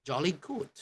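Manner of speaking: high-pitched British "jolly good"; British approval. Acted. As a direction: pronounce it like a cheery Brit. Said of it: "what they say is".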